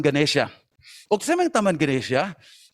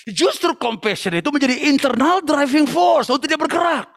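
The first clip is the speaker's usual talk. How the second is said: emphatic preaching, pitched up; 6 semitones higher than usual. Real, not acted. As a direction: preach it with conviction, pitch raised.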